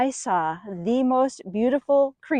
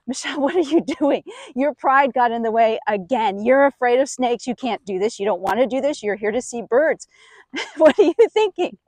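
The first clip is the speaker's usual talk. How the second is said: inner voice. Retold or imitated. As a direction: scold yourself with nervous laughter. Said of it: "the voices in my head start".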